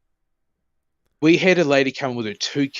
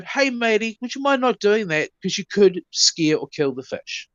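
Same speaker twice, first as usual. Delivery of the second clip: higher, sweetly polite warning; friendly tone; 5 semitones higher than usual. Retold or imitated. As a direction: nicely ask the kid to stop. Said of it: "that exact tone".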